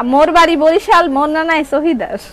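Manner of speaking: homely Barishali speech; Barisal dialect. Shown as a demonstration. Seller showing viewers her Barishali, in Barisal dialect. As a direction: introduce yourself in Barisal dialect. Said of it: "বরিশালের ভাষা বলতে পারি".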